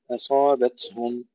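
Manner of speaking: slow أصابتهم, the ت breathed with no bounce; slow down and breathe the ت in أصابتهم; whispered ta. Shown as a demonstration. Teacher slowly modelling أصابتهم for students. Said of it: "همس التاء بدون قلقلة".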